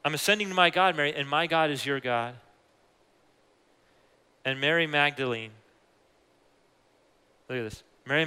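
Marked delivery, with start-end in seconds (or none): 0.0-2.3 family-warm retelling. Acted. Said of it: "this is like a family moment".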